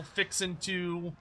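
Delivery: "Fixin'" ending in -in' without the G; slow Texan "Fixin'", G left off; dropped G. Shown as a demonstration. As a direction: say "Fixin'" slowly, dropping the final G. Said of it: "removing the G from ing".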